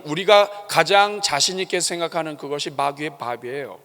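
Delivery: normal talking voice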